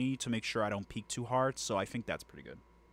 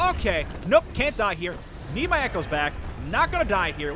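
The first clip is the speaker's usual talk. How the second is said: real panicked outburst, louder and higher; frantic loud gaming; 5 semitones higher, 7 dB louder than usual. Real, not acted. Streamer in a tense boss fight, frantic loud outburst. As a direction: shout it out while dodging for your life.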